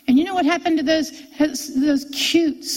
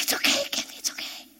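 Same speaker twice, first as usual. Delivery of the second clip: husband's comfort; 8 dB quieter, faster than usual. Retold or imitated. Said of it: "He's like".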